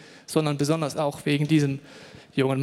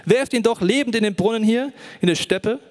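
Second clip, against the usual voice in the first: loud, high pleading call; 5 semitones higher, 5 dB louder than usual. A narrator's reading. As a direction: cry out to stop the brothers. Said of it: "rief er".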